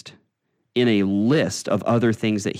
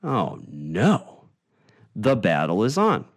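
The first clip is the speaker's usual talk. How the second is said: Satan. Retold or imitated. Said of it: "and says".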